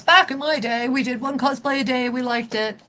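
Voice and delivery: lightly voiced grumpy old man; a hint of a crusty grandpa reading chat. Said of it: "in an old man voice".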